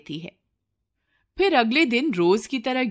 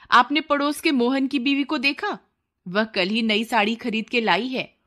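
lightly voiced complaining wife; nagging wife; 3 semitones higher than usual. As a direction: grumble at your husband about money. Wife nags husband over money.

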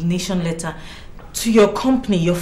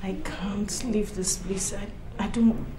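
fearful refusal; 7 dB quieter than usual. Acted.

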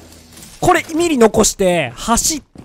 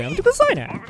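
pleading. Real, not acted. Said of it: "ほんと殴りますよ".

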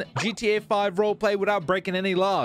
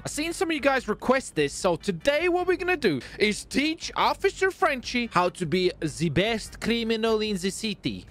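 Officer Frenchie impression; 4 semitones higher than usual. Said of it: "That was a very terrible impression of Officer, uh, Frenchie".

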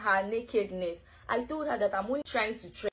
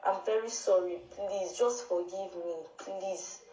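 begging forgiveness. Real, not acted. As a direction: plead over and over for forgiveness. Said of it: "Why are you begging now?".

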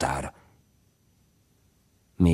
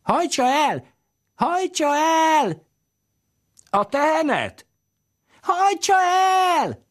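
put-on very high, slow shrill cry of a little girl; child shouting; 5 dB louder, slower than usual. A narrator's reading. Little girl yelling to the carter to drive the cow off, high cries. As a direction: yell it as a small girl calling to the carter. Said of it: "kiáltott Kadarcs Istvánnak".

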